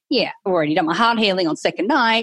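mock-cocky self-assurance; breezy, lightly cocky brag. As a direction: toss it off like an old hand. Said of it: "I'm like all cocky going".

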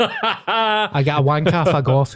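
repeated slowly through a burst of laughter; can't get it out without laughing. Real, not acted. Repeating the school confession to his mate, laughing slowly.

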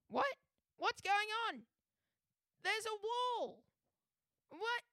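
Scottish learner driver in loud, high-pitched panic; put-on Scottish accent. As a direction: build to hammed-up Scottish yelling as the car runs off. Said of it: "he's going to be using a Scottish accent".

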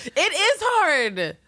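high, slow, loud laughing; laughing drawl. Real, not acted. Agreeing through laughter that restraint is hard.

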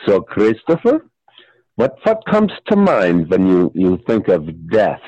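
lightly voiced psychiatrist, low; a hint of a low-voiced analyst. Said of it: "the psychiatrist".

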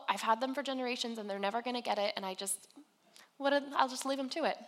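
hurried, dismissive pretend resignation; giving up. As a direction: toss it off as if washing your hands of them. Imagines God giving up on people.

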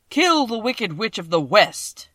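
a vast, slow, thundering wizard; voice of the great Oz. A narrator's reading. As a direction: boom each word out like a huge magic head.

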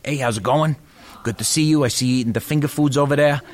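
hammed-up New York dentist accent; lightly done cliché New Yorker, drawling the hors d'oeuvres. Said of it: "it's a cliche accent".

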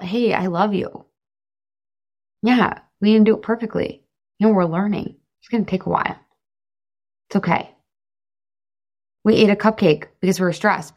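gentle, forgiving talk to yourself; kind self-talk. Acted. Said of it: "start going over to yourself".

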